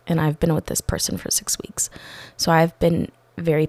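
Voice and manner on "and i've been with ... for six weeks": whispered. Real, not acted. Venting about long job.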